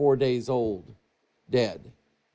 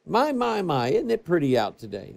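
casual Jesus; 3 semitones higher than usual. Retold or imitated. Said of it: "I'm paraphrasing here".

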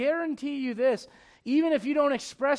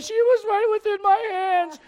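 much higher and louder, a hammed-up distraught dad; mock news interview; 12 semitones higher, 10 dB louder than usual. Preacher mocks a dad on the evening news, hammed-up and high. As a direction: play the panicked father on TV. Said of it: "the guy that's on the news like".

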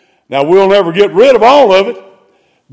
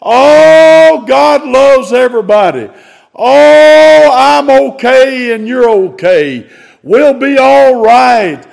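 high, loud, sing-song mock of easy comfort; mocking feel-good preacher; 5 semitones higher, 4 dB louder, slower than usual. Preacher mocking TV religion to his congregation, high sugary sing-song. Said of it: "The normal religionist, you can hear it on television".

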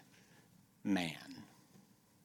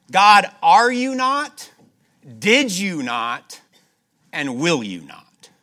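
loud, slow, high rising questions to God; fervent pleading prayer; 8 semitones higher, 12 dB louder, slower than usual. Acted. Preacher voices the king praying to God, loud and pleading. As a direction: plead each question upward, drawn out. Rehearsing God's faithfulness in prayer.

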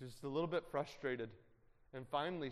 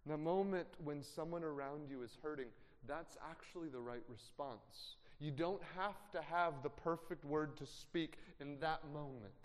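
ordinary delivery

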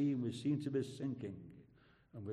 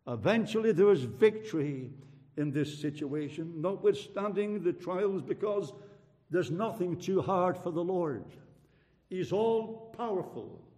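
raised, emphatic pulpit voice; triumphant preaching; 5 semitones higher, 5 dB louder than usual. Real, not acted. Preacher declares nothing too hard for the Lord, triumphant preaching. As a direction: proclaim it to the congregation.

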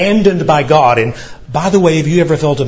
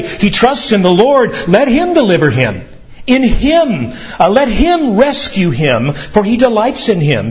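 higher, mild mock jeering; mocking taunt; 6 semitones higher than usual. Preacher voicing the crowd taunting Jesus, mild mock jeer. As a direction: taunt him like the crowd at the cross. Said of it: "shout those very words at Jesus".

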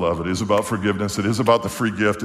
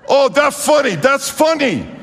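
amused waitress; 14 semitones higher, 4 dB louder than usual. Retold or imitated.

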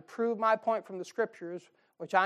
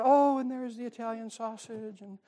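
savoring; 5 semitones higher, slower than usual. Retold or imitated. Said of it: "I'm going over".

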